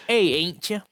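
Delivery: put-on southern accent. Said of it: "She's like".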